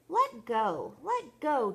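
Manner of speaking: loud storybook yell, climbing in pitch; Chucky yelling. Acted. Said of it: "Chucky yelled".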